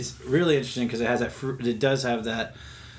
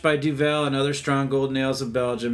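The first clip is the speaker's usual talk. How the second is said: brisk read of label text; reading marketing copy. Acted. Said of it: "I'm pulling up their marketing materials".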